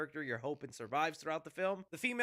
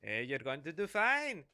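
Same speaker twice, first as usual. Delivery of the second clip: put-on lower smooth-talker voice; mock pickup voice, dropping lower; flirting pilot; 4 semitones lower than usual. Pilot hitting on the panicking woman over the phone, mock flirty. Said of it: "the guy's like".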